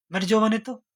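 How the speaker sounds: put-on old woman curses the bride, loud and high; old woman's curse. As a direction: spit it out like a cranky old woman. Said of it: "तो बुढ़िया कहती".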